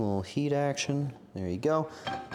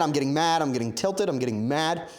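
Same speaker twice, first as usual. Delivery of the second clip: worked-up ranting repetition, easing off; mild comic anger, peaking early then settling; getting mad; 2 semitones higher than usual. Real, not acted. Streamer ranting at pickles, mildly mad. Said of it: "I'm getting mad at pickles".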